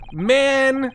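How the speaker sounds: shouted "Man!" then high cackle; laughing outburst. Real, not acted. Streamer reacting to the silly name, loud laughing outburst. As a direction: burst out laughing at the joke.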